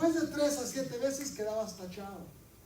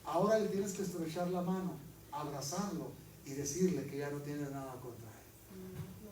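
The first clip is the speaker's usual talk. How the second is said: lightly voiced Lord; 5 semitones lower than usual. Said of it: "el Señor habla ... me dice".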